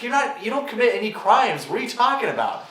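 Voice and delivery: high-pitched mock ex, incredulous; imitated ex-girlfriend. Comic quoting his ex on his paranoia, imitated incredulous girlfriend. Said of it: "she's like".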